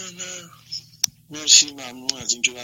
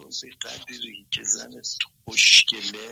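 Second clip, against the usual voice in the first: slow, hushed whisper of the quoted line; slower than usual. Retold or imitated. Caller retelling Osho's line to the host, whispered slowly. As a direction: lean in and breathe it like a secret.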